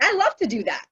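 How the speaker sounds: high, tearful retold wail; hammed-up weepy disbelief; mock boo-hoo crying. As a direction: imitate crying in a squeaky high voice. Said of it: "like, boo-hoo crying".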